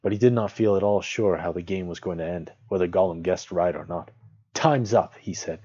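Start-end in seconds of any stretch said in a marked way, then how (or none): 4.5-5.1 loud, raised call; firm announcement. A narrator's reading. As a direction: call time decisively. Bilbo calls time on Gollum.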